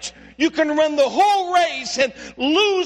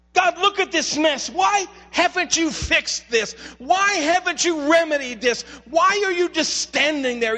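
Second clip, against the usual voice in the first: crying out to God; 2 semitones higher than usual. Retold or imitated. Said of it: "he's crying out to God".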